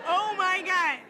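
high shocked squeal, loud. Real, not acted. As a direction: shriek it out in disbelief. Shocked by sex joke.

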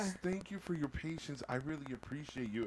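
lilting, over-polite customer service; phone agent impression.

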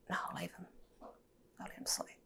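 soft, hushed words to herself, slowing at the end. Retold or imitated. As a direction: murmur it so as not to wake him. Deciding not to wake him.

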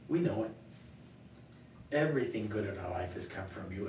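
earnest spoken prayer, strong opening. Real, not acted. Pastor closing the talk by thanking God, praying. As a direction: address God in thanks, with long pauses.

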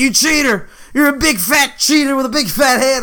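high, teasing mock accusation; playful taunting. Teasing his little cousin at play.

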